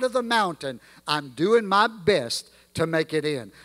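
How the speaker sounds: put-on reciting old gospel lyrics in a rolling preaching cadence; hymn recitation. Preacher reciting a remembered hymn to the church, rhythmic and heartfelt. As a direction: let the hymn verse swell and settle.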